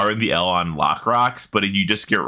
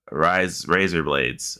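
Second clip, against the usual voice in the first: mock Australian accent; 4 semitones lower, much slower than usual. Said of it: "bad accent jokes".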